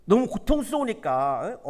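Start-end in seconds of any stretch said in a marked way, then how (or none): none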